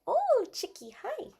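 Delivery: very high, soft squeal to the kitty; squeaky cat greeting. Real, not acted. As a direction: melt over the cat in a tiny voice.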